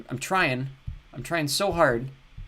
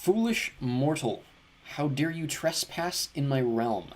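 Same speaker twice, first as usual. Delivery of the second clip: dark lord; slower than usual. Acted. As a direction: boom it out like a god guarding his realm. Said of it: "Can you guys tell I'm a voice actor?".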